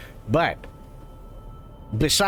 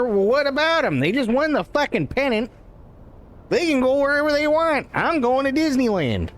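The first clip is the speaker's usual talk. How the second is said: excited pope; 7 semitones higher than usual. Retold or imitated. Pope answers defiantly.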